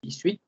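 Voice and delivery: Dix-huit said diswit, sounds joined; Dix-huit as one linked word; French dix-huit. Shown as a demonstration. Teacher models French eighteen: Dix-huit as diswit. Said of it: "Aquí se juntan los sonidos".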